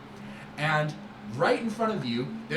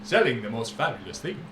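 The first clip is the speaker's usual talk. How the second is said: louder, sweeping showman voice; grand merchant boast; 5 semitones higher, 7 dB louder than usual. Acted. Merchant Syrah boasting to the young friend, loud and showy. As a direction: boast like a flamboyant trader.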